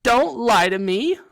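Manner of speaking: high, loud, drawn-out upset cry; gasped, tearful accusation. A narrator's reading. Weeping girl ghost accuses the others of lying, gasping. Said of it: "Myrtle gasped".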